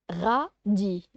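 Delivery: "Radis" with a break between ra and dis; two syllables. Shown as a demonstration. Teacher showing two syllables, "Radis" lightly split. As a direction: separate "Radis" into two beats. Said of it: "Il y a deux syllabes".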